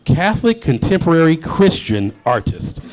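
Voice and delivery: slow, carefully spelled out; slow repeat. Shown as a demonstration. Host repeating the singer's long title to the crowd, slow and deliberate. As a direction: slowly savour each word of the long title. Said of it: "That's a lot of words to say before artist".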